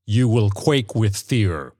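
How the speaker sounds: slow monotone threat, lightly voiced; hint of an inhuman menace; harsh, monotonous stranger. A narrator's reading. Stranger threatens old woman, slow mildly harsh monotone. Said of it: "His voice was harsh and monotonous".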